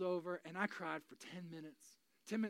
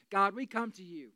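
earnest prayer, louder, in separated phrases; public prayer; 7 dB louder than usual. Real, not acted. Pastor praying for people in a storm, earnest prayer. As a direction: lead the room in heartfelt prayer.

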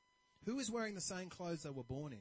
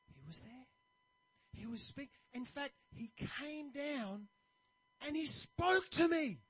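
high, slow, louder triumph; delighted traveler; 8 semitones higher, 6 dB louder, slower than usual. Retold or imitated. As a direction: savour the big reveal. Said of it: "he's really happy".

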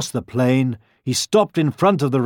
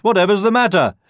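high, raised voice; boar character; 9 semitones higher, 4 dB louder, faster than usual. A narrator's reading. Boars asking the runaways what is wrong, calling. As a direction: ask it loudly, pitched up. Boars question the fleeing animals.

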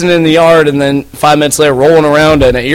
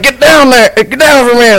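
put-on drunk yell; 9 semitones higher than usual. Drunk friend yelling at kids.

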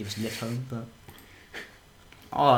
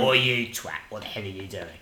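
put-on London accent; 4 semitones lower than usual. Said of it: "I'll have a London accent".

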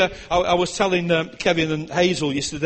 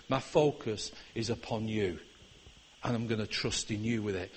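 much softer, lower trusting prayer; quiet prayer; 4 semitones lower, 6 dB quieter than usual. Retold or imitated. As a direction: murmur your surrender to God. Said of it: "My prayer became".

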